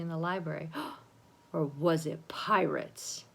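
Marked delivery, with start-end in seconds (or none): 0.7-3.2 gasping suspicion. Acted. Gasp, dramatic suspicion.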